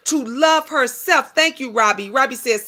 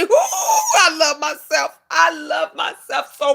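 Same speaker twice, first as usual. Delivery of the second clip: self-loving; 4 semitones higher than usual. Retold or imitated. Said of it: "every day I say".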